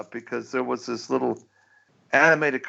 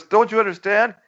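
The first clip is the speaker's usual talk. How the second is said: cartoon Pollard voice; 10 semitones higher than usual. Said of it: "he goes".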